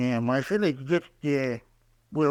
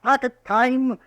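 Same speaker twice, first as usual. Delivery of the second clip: defensive; 8 semitones higher than usual. Acted. Old man pressed by marshal.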